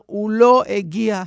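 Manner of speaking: old man waking from a faint, lightly acted weeping; mock weeping lament. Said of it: "הוא פרץ בבכי ואמר".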